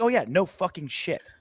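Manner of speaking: mock amazement at useless advice. Real, not acted. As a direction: make fun of the obvious. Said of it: "the thing I was making fun of".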